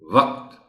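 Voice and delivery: وقت as one syllable, waqt, no vowel before t; correct pronunciation. Shown as a demonstration. Teacher modelling وقت, one syllable with q and t together. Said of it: "وقت بتانا ہے".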